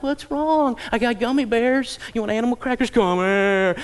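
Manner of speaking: high-pitched mock fussing; coaxing parent. Parent offering snacks to a crying child, mock coaxing. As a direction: coo and bribe a crying child, hammed-up.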